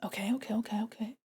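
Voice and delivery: whisper. Real, not acted.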